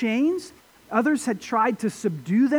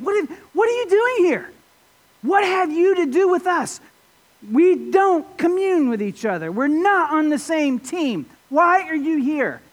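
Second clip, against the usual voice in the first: lightly voiced demons, higher-pitched protest; demon-possessed men; 5 semitones higher than usual. Demon-possessed men confronting Jesus as he lands, mock protest. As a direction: imitate indignant demons challenging an intruder. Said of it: "these men saying".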